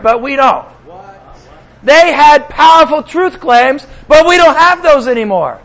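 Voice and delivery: mock defeatist protest, tongue in cheek; sarcastic. Preacher parodying doubters of church growth, sarcastic. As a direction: sarcastically insist it can't be done, each excuse falling away at the end. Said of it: "I'm being sarcastic".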